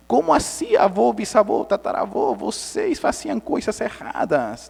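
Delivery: mock youthful astonishment; grandchildren's reproach, imitated. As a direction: voice shocked grandchildren questioning their elders. Future generations voiced, reproaching elders.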